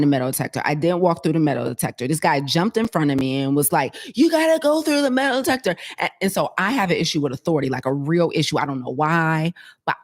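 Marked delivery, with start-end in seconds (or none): 4.2-5.8 mock security guard. Guard voiced in retold story.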